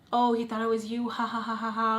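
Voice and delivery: mock laughing quote; a mocking giggle at the boyfriend. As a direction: tease through a put-on laugh. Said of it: "Like, laughing".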